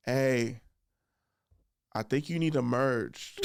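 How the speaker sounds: unhurried, laid-back suggestion; coolest voice. Retold or imitated. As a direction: pause after hey, then ease it out calmly. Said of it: "in the coolest voice".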